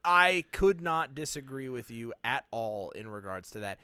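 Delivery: firm agreement with heavy word stresses; measured but over-emphatic agreement; emphatically aggressive. Real, not acted. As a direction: come on oddly forceful while agreeing. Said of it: "the way that you said it was so aggressive".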